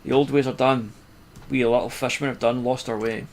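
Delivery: a lightly put-on Cockney fisherman; put-on Cockney accent. Gamer reading the fisherman's lament in a put-on Cockney accent. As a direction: read the old fisherman's lines with a rough Cockney lilt. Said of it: "I think he's maybe like Cockney or something".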